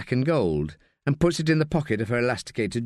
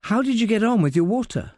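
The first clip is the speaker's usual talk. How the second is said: nervous woman voice; 9 semitones higher than usual. Acted. Marie voiced anxious, higher.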